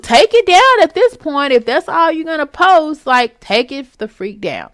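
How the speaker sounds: exasperated outburst. Real, not acted. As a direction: throw it out, exasperated. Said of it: "But shoot".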